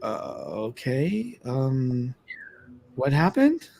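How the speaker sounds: nervous voice climbing high and fast; rattled. Retold or imitated. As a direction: laugh off the fright, shaken. Retold shaken reaction after ghost.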